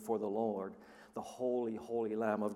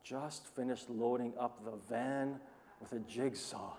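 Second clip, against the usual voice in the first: dry disbelief; 6 dB quieter than usual. Shown as a demonstration. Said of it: "repeats quote slowly, quietly".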